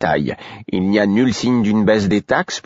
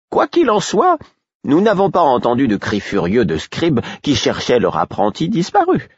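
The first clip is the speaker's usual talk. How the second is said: reassuring father; 6 semitones higher than usual. A narrator's reading. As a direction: soothe the frightened boy. Josh voiced.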